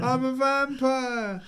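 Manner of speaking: hammed-up imitation of a madman yelling in the street; screaming. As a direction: shout "vampire" out long and high down the street. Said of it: "running down the street screaming".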